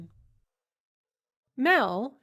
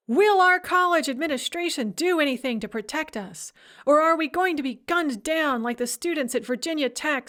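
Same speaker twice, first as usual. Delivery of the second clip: solemn poetry recital, slightly raised; mock Russian poetry recital. Reading the blog post aloud to Mel, mock poetry recital. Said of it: "my best reciting Russian poetry voice".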